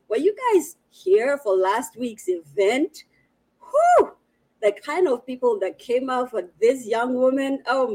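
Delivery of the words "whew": high, loud whistle-like whew; a loud impressed exhale; whew of amazement. Real, not acted. Reacting to last week's crowd.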